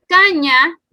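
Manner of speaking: caña with a high, loud first syllable "ca"; stress on penultimate syllable. Shown as a demonstration. Teacher giving an example of palabras graves, stress on "ca" in caña. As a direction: hit the "ca" of caña, let "ña" drop. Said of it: "su sílaba tónica sí está en el penúltimo".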